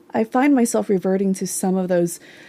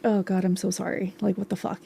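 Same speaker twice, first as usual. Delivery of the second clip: softer, deflated self-talk; subdued self-apology; 2 semitones lower, 7 dB quieter than usual. Retold or imitated. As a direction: drop to a quiet, sorry aside. Apologising to herself in low moments.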